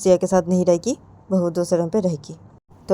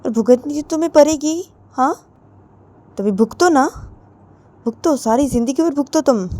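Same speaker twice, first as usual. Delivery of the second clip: louder, taunting retort; spiteful mother; 3 semitones higher, 4 dB louder than usual. Retold or imitated. Mother taunting Ritu to suffer, loud mocking scolding. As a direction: sneer it loudly at her daughter. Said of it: "तो तभी रितु की mummy बोलती".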